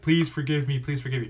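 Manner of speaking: a quick imitation of pleading, first plea pushed up and out; mock begging. Shown as a demonstration. Host to viewers, showing how begging would sound, mock pleading. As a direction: play at begging for a moment, half-hearted. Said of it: "it's not me begging you, like".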